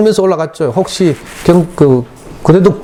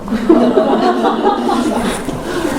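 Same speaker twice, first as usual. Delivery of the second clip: a real laugh that jumps up high; high burst of laughter; 13 semitones higher, 4 dB quieter than usual. Real, not acted. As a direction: break into a high, airy laugh. Burst of laughter after quote. (높고 터지는 웃음소리)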